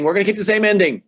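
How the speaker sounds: hammed-up decree; imitating the Wachowskis. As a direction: announce it like a stubborn studio boss. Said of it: "imagined him on set again saying".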